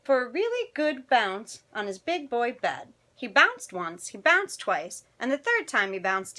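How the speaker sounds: animated picture-book narration; children's story reading. A narrator's reading. Storyteller reading tonight's picture book to children, animated. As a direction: read it expressively to young listeners.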